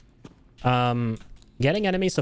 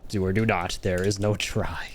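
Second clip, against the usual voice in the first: Yoda; 4 semitones lower than usual. Retold or imitated. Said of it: "Thank you, Master Yoda".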